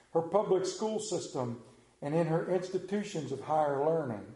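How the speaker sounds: grand, cadenced recitation with falling ends; oratory reading. Acted. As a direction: declaim it like a patriotic speech. Reads famous quote as oration.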